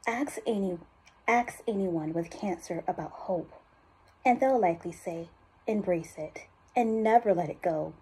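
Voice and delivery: understated urgency in a measured voiceover; serious, focused appeal for a cancer institute; urgent ad read. Acted. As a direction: drive gentle tension through the commercial copy. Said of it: "I felt that urgency".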